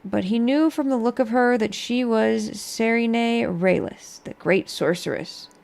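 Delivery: measured storybook narration; story narration. Acted. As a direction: read it like a tale. Reads skill book aloud.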